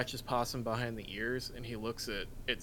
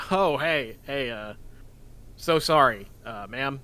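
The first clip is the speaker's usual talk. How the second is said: flustered apology; 5 dB louder, slower than usual. Acted. Grant caught, plays innocent.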